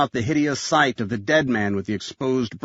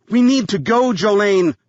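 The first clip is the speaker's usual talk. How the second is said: high, louder anxious plea; urgent pleading; 7 semitones higher, 5 dB louder than usual. A narrator's reading. Graham begs Jolene to leave, urgent pleading. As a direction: plead to get moving, pitched high.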